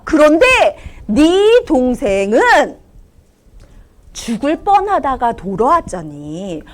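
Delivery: slow, tender fatherly voice; gentle father. Acted. Father telling his older son why they celebrate, tender. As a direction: explain it patiently, very slowly.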